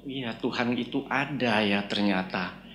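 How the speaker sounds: softened inner musing; quiet realization. Retold or imitated. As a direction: let the realization settle quietly, as a thought. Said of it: "saya mulai berpikir bahwa".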